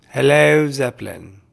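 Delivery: a loud, high hello thrown out; loud mock hello. Greeting a band, loud and playful. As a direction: call out hello with a grin.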